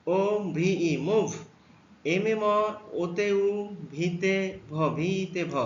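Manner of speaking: drawn-out এমওভিই before মুভ; slow demo. Shown as a demonstration. Teacher slowly blending letters into a word for pupils. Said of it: "ও এর উচ্চারণ ডু হয়েছে".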